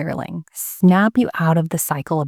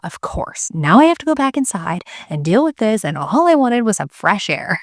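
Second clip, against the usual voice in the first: a whispered "of course," then a higher, exasperated grumble; annoyed inner groan; 5 semitones higher than usual. Retold or imitated. Mom grumbling to herself about going back inside, exasperated. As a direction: vent the frustration at being dragged back in. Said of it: "immediately I thought".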